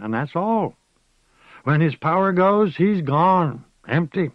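put-on old witch explaining wizards. A narrator's reading. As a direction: explain to the girl.

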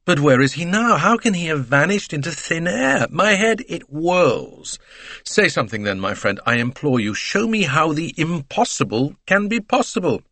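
exasperated. Acted. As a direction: throw up his hands in despair. Bouc bewildered, pleading to Poirot.

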